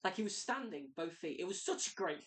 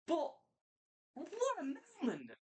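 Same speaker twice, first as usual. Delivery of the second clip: excited; 12 semitones higher than usual. Real, not acted. Excited about the Rumble winner.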